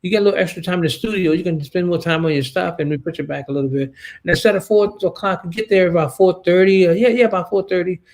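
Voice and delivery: mimicking an evasive crew member; nervous stammering. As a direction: hem and haw like someone hiding bad news. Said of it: "uh, stuttering around".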